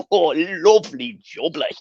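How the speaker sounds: slow, lightly voiced London market trader; a touch of a cheeky wheeler-dealer; hammed-up catchphrase, only half in character; Del Boy impression. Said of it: "I'm getting the Del Boy vibe with you".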